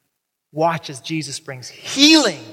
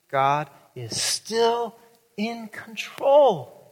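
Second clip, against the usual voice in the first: very slow, every word weighted; slow emphatic refrain; slower than usual. Shown as a demonstration. Preacher answering each hardship with the refrain, very slow. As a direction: land it like a promise.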